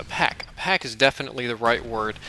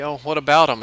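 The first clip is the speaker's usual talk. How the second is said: put-on coy girl; 3 semitones higher, 6 dB louder than usual. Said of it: "she looks at me all pretty".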